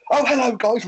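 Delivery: high, loud mock hello; loud greeting. Imitating the newcomer barging in at the bonfire, loud and high. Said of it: "really loud".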